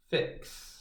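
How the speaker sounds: soft unvoiced "Fix"; whispered answer. Shown as a demonstration. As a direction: breathe "Fix" as if answering quietly. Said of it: "you're going to do it with me".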